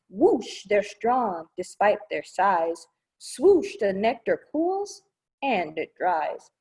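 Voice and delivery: rhythmic storybook read, slowing on the last line; reading to children. Acted. Librarian reading how bees make honey, building to a slow finish. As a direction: build up, then land it big. Reads fanning verse aloud.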